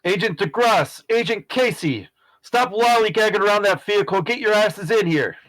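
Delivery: yelled order. Acted. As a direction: call out sharply to stragglers. Superior yelling at agents to come in.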